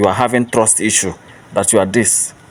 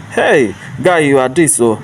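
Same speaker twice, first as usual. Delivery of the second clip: mock flattery; 4 semitones higher than usual. Mimicking a flatterer's empty compliments.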